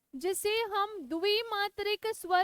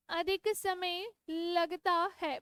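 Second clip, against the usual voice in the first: slow dictation; 2 semitones lower, 3 dB quieter, slower than usual. Shown as a demonstration. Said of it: "मेरे साथ साथ लिखो".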